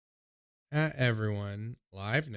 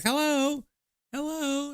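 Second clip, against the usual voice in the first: put-on high, sing-song drunk calling; drunk dad calling out; slower than usual. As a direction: call through the window like a tipsy dad. Drunk dad knocking on windows.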